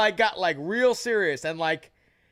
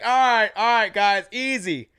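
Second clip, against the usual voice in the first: calming them down; 4 semitones higher, 6 dB louder than usual. Retold or imitated. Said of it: "Tyson Pedro goes like".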